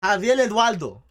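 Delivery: "Javier Eduardo" said loud as "Javiel Eduardo" with an L sound; L instead of R. Shown as a demonstration. Teasing the Puerto Ricans with their version of his name. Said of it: "when you just forcing it".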